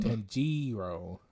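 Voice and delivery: Tanjiro stretched as "tan-JEE-ro"; slow, stretched middle syllable on Tanjiro; drawn-out repeat. Shown as a demonstration. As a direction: say Tanjiro slowly for someone who missed it.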